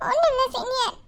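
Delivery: sniffly, understated denial; tearful denial. Acted. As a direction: hold back tears while insisting nothing is wrong. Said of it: "எதுக்கு அழுகுற?".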